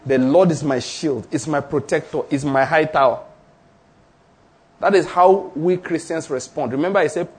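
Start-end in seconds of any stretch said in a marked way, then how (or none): 0.1-3.2 calm repeated confession, a touch lower; lightly voiced faith declaration. Shown as a demonstration. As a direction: declare each line as a promise. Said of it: "I'm declaring".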